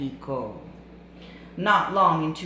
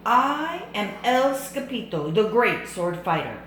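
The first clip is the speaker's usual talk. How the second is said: loud, proud swashbuckler voice; boastful sword fighter; 5 semitones higher, 6 dB louder than usual. Acted. Kitten introduces himself to the bandits, proud loud voice. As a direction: announce yourself like a hero.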